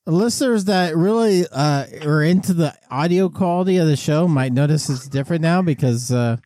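payphone line sound; talking on an airport payphone; over the phone. Real, not acted. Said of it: "I'm on a payphone at the airport".

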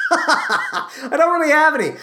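says it again through a laugh; giggling through the words. Real, not acted. Repeats line laughing.

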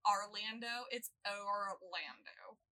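slow French-style "Orlando"; French accent. Shown as a demonstration. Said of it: "She was just using a French accent".

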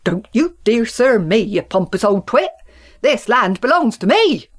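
loud angry retort; bellowed. Acted. Farmer Country bellowing at Farmer Town, angry and loud. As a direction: roar back at the pompous twit. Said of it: "bellowed Farmer Country".

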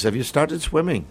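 mock Indian accent, lightly put on; offensive Indian accent. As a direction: imitate the doctor with an exaggerated Indian accent. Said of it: "that's my offensive Indian accent".

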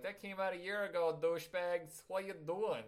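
rough attempt at Brooklyn accent. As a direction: heckle in a put-on Brooklyn accent. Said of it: "that was Brooklyn".

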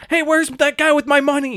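imitated indignant holler; retold yell. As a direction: call out as if demanding payment. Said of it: "you hear him yelling".

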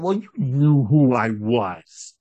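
slow, ominous mock line; demon father. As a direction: lay it out slowly and darkly. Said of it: "the father said".

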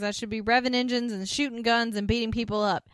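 worked-up quoted protest; indignant. Retold or imitated. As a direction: retell his frustrated rant with rising energy. Retold rant of frustrated man.

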